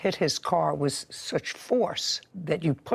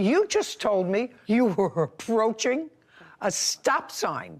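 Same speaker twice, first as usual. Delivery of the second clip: slow, deliberate, word by word; dictating to slow typist; 4 semitones higher, slower than usual. Real, not acted. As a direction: lay each word down slowly. Judge spells out his words.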